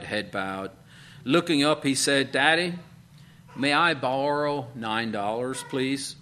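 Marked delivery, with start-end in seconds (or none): 2.3-6.2 put-on pleading little boy. Boy begs father for money.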